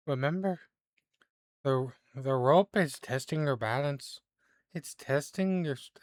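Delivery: a hint of a mystic giving advice; fortune teller. Fortune teller advises Damien on the rope, lightly voiced. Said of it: "whispers in your ear, Damien".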